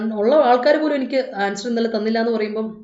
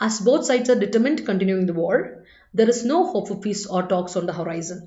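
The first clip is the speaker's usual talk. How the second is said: slow, careful English read-aloud, word by word; slow dictation reading; 2 semitones lower, much slower than usual. Shown as a demonstration. Teacher reading the exam sentence to the class, slow and careful. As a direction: read it out slowly for the students. Rereads the question.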